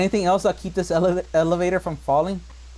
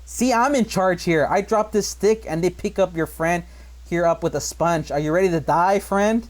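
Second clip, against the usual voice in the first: Dennis Hopper's villain. Retold or imitated. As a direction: lord it over him, slowly. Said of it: "Dennis Hopper, he goes".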